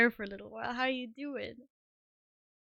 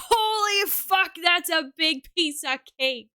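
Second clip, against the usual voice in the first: much higher and louder, slowed astonished outburst; mock shocked viewers; 6 semitones higher, 6 dB louder than usual. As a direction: play the stunned viewers gawking at the cake. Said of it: "you guys are gonna be like".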